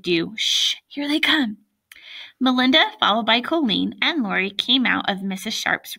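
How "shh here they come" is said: high, urgent little warning; raised-pitch lookout alert; hushed warning. A narrator's reading. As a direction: shush a friend, voice lifted. Boy hushes friend while spying.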